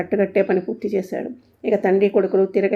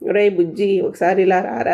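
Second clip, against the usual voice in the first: calling out; 4 dB louder than usual. Acted. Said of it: "అని అరిచాడు".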